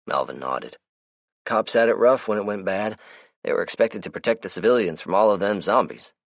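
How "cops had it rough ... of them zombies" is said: higher, brighter character voice; Melvin's voice. Acted. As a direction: play the chatty, easygoing Melvin. Melvin voices his lines.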